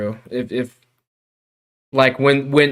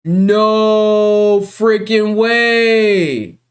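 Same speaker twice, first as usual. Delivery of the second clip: high, loud exasperated shouting; frustrated yell; 10 semitones higher, 5 dB louder, much slower than usual. Real, not acted. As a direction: shout it in real disbelief. Software fails, frustration building.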